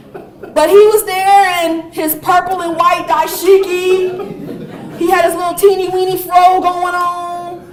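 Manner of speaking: amused laughing description. Real, not acted. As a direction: laugh while picturing the dashiki and fro. Laughing describing Andre's outfit.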